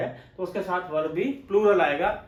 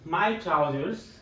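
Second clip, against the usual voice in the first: slow dictation; 3 semitones lower, 4 dB quieter, much slower than usual. Shown as a demonstration. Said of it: "जैसे ट्राउजर्स".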